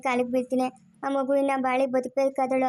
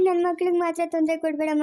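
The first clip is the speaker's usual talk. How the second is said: ನನ್ ಮಕ್ಳಿಗೆ begged in a tearful, raised voice; tearful plea; 3 semitones higher than usual. Acted. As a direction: cry the plea for the children. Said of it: "ಯಾಕ್ ಅಳ್ತಾ ಇದ್ಯಾ?".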